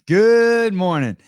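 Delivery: high drawn-out good morning; sing-song greeting. Real, not acted. Greeting guest rolling blunt.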